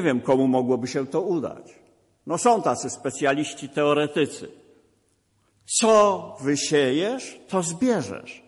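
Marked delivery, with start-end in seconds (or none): 5.8-8.4 "Co wysiejesz" said slowly, then "to zbierzesz" falls; slow maxim. Shown as a demonstration. Preacher closes his point to the congregation, slow. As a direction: spell out the maxim word by word. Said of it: "refrain as moral".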